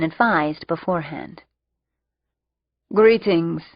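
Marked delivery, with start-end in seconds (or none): 2.9-3.6 odd robotic greeting; robot voice, cold and even; machine-like voice. Acted. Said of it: "in his odd, machine-like voice".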